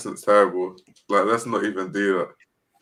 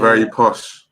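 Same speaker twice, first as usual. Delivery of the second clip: put-on French accent; slower than usual. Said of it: "that's how French people talk".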